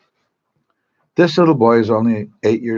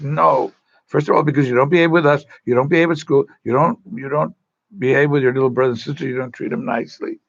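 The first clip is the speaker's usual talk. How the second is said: scolding parent; 4 semitones higher, faster than usual. Acted. Parent refuses, scolds the boy.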